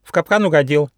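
high, loud parrot squawk; jabbering parrot. Acted. Parrot taunts the trapped tiger, jabbering high. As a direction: chant the jeer shrilly like a parrot. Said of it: "затараторил попугай Лори".

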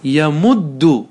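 يمد said very slowly, each sound drawn out; teacher slowly models يمد; slow demo. Shown as a demonstration. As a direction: stretch يمد for the class. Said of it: "فنقول".

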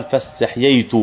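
استحييت with ḥ closed and two yā sounds, is-taḥ-yay-tu; eloquent form. Shown as a demonstration. Teacher gives students the classical form, eloquent pronunciation. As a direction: say فاستحييت fully, keeping the extra y after ḥ. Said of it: "قالوا الفصيحة".

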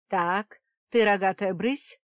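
a stranger scolding, loud; unknown woman's voice. A narrator's reading. Stranger woman scolds the creature, loud. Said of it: "донёсся незнакомый женский голос".

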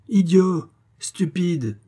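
two high, loud barked insults full of disdain; scornful insults. A narrator's reading. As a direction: spit them out like an offended king. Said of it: "avec un dédain de souverain".

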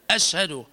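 أشهد with a thin unrounded hamza; light hamza. Shown as a demonstration. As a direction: start أشهد with a clear light glottal stop. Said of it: "أشهد وليس أشهد".

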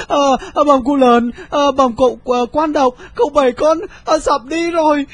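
high, stammering frightened servant; flustered servant. A narrator's reading. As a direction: stammer the news in high panic. Servant reporting in panic. (giọng gia nhân lắp bắp hoảng hốt)

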